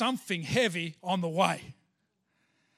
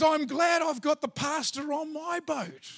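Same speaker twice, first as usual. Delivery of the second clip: higher-pitched imitation of a delighted friend; gleeful; 5 semitones higher than usual. Friend glad to have the pastor aboard, gleeful. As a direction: crow it, tickled by the catch. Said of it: "And he's laughing".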